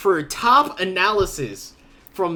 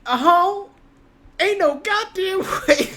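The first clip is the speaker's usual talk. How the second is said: mock disbelief; 5 dB louder than usual. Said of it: "he's like".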